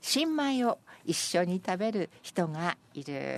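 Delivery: measured verse reading; senryu recitation. Acted. Presenter reading senryu about sharing new rice, measured recitation. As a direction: let the poem unfold phrase by phrase.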